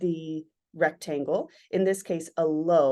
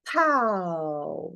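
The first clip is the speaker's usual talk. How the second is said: sharp pow burst; 3 semitones lower than usual. Shown as a demonstration. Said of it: "I like to use the word".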